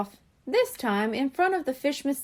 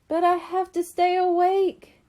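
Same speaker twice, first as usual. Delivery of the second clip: determined; 7 semitones higher, 4 dB louder than usual. A narrator's reading. Coral fighting exhaustion.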